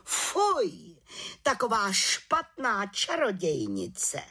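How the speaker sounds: shocked disgust from the head witch; outraged cry. A narrator's reading. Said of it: "pohoršeně vykřikla". (vrchní čarodějnice pohoršeně vykřikne)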